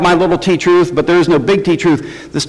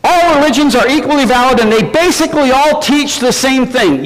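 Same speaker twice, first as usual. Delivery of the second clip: higher, sing-song sarcastic restatement; mocking the objection; 5 semitones higher than usual. Shown as a demonstration. Preacher repeating the objection to the congregation, sarcastic. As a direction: parrot it back with mock sincerity. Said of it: "Yeah, right".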